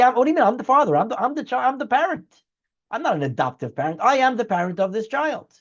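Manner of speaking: mildly acted indignation; indignant parent. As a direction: act out a parent insisting on the title.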